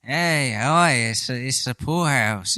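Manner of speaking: bad British accent. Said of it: "a really bad British accent".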